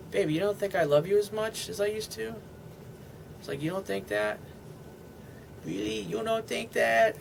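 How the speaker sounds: put-on cooing to a girlfriend in a soft, playful baby voice; teasing baby voice. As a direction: tease her in a cooing little baby voice. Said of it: "my little baby voice".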